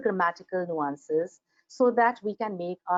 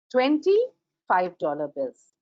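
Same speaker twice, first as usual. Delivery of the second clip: no hyphen version; 2 semitones lower, slower than usual. Shown as a demonstration. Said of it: "the hyphen makes a difference".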